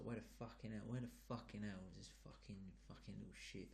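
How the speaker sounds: quiet London geezer mutter; mumbling to himself. Acted. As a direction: grumble it softly to yourself. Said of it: "He's just mumbling to himself".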